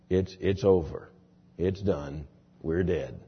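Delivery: imitating a preacher's low, slow, soft opening. Imitating a famous preacher setting out the problem, low and slow. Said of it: "He's got a voice that is so low".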